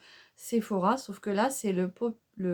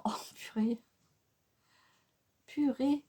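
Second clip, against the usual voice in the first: amazed exclamation; 4 semitones higher, 4 dB quieter than usual. Real, not acted. Amazed at the glitter result.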